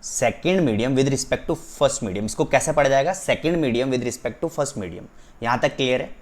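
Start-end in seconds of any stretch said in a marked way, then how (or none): 0.0-2.2 "Second medium with respect to first medium" slow and deliberate; emphatic reading. Shown as a demonstration. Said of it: "मैं इस पे इतना जोर इसलिए दे रहा हूँ". 3.2-5.1 "Second medium with respect to first medium" slow, deliberate repeat; emphatic reading. Shown as a demonstration. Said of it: "मैं इस पे इतना जोर इसलिए दे रहा हूँ".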